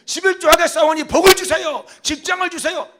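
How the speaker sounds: high, loud pleading prayer; praying believer. Shown as a demonstration. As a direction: beg God loudly like a believer. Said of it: "이렇게". (높고 큰 소리로 간구하는 기도)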